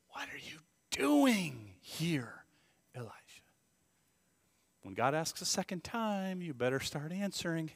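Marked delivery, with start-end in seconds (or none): 0.1-3.1 very slow, drawn-out solemn question; weighty, deliberate divine question; voice of God. Acted. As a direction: speak as God, stretching out each word. Voicing God's question to Elijah.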